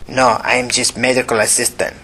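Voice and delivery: put-on young man, heavy Asian accent; lightly voiced Asian accent. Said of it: "in a heavy Asian accent".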